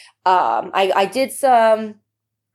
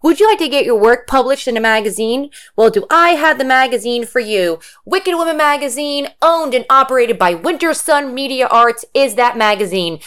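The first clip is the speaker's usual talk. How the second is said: louder, upbeat ad announcer; sponsor ad read; 4 semitones higher, 4 dB louder than usual. Acted. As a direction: sell it like a radio spot.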